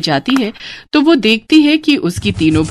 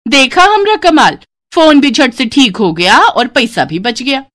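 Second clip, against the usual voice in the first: proud gloating bride; 4 semitones higher than usual. Acted. Bride boasts about fixing the phone, high and proud. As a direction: show off your trick.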